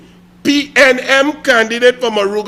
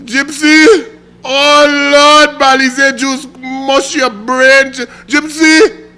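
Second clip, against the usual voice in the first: louder, higher despairing call; exasperated outcry; 3 semitones higher, 3 dB louder, much slower than usual. Real, not acted. Calling out Gypsy in exasperated despair. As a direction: throw up your hands at him.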